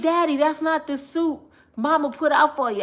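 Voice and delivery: high, loud mock scolding; retold call-out. Confronting dad about wrong suit.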